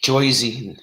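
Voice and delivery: put-on kidding "Joyzy" in North Jersey accent; joking Jersey accent. Streamer kidding about her home state, joking Jersey accent. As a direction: put on a jokey New York-Jersey accent. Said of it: "I say that when I'm kidding".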